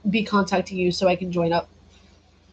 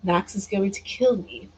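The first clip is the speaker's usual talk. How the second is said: put-on British accent; 3 dB quieter than usual. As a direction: toy with a mock-British lilt. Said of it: "put on a British accent".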